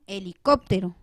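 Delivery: "helicóptero" con golpe claro en "cóp"; acento en CÓP. Shown as a demonstration. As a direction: marca la antepenúltima de "helicóptero": he-li-CÓP-te-ro. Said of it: "pronuncio la mayor intensidad de voz". (sílaba tónica "cóp" resaltada en "helicóptero")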